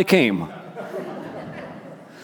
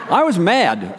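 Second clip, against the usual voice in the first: laughing; 2 semitones higher, slower than usual. Real, not acted. Laughing while admitting anger.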